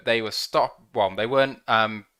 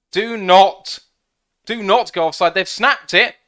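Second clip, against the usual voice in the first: high, loud, begging the players; urgent plea; 7 semitones higher, 10 dB louder than usual. Real, not acted. Fan pleading with the Lions not to go offside, loud and high. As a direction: beg them not to jump.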